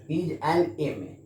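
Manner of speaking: He is an एम ए said slowly, with an stressed; slow teaching read of an एम ए; slow demo. Shown as a demonstration. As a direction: stress the an before एम ए. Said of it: "it is pronounced एम".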